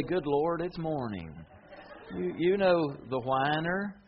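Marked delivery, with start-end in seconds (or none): 0.0-1.3 mock-weary whine, sagging at the end; whiner's groan. Whiner wakes and moans to the Lord, a mock-weary whine. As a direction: complain about waking up, dragging it down. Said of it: "they say".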